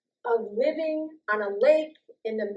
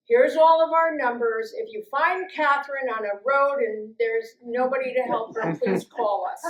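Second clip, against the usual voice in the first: loud letter quote; 3 semitones higher, 6 dB louder than usual. Retold or imitated. Quoting friends' letter in the glove box, raised voice. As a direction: read the note out as a big plea. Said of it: "my friends".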